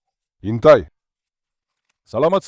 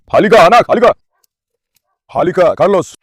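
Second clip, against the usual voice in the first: loud coaxing call; 6 dB louder than usual. Real, not acted. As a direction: call the dog over from afar. Calling the dog to come. (malakas na pagtawag sa aso)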